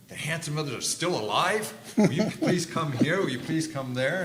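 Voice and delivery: high, eager pleading on the phone; excited callers. Retold or imitated. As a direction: beg him to come, bright and eager.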